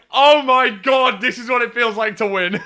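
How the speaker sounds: retold elation. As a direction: relive the thrill of winning, breaking into laughter. Retells elation of first win.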